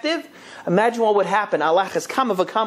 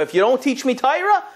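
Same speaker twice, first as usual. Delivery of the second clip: threatening; 6 semitones higher than usual. Retold or imitated. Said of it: "he wasn't threatening him".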